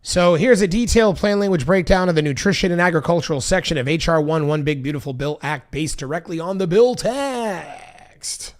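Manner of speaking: smooth professional radio read; radio announcer voice. Acted. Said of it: "I said that like a real radio professional".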